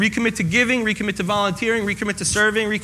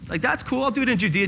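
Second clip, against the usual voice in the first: caught off guard; 5 semitones higher, 3 dB quieter than usual. Retold or imitated. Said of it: "And they're like".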